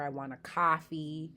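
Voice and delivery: Boston "coffee" with open ah; lightly voiced Boston accent. Shown as a demonstration. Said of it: "whenever you do hear".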